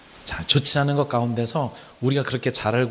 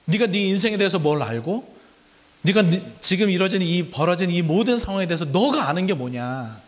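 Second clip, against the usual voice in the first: God challenging Job; 3 semitones higher than usual. Acted. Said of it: "하나님이 욥에게 묻는 거예요".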